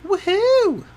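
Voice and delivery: high, loud celebratory whoop; excited cheer. Real, not acted. Player celebrating a spellcaster back to full, excited cheer.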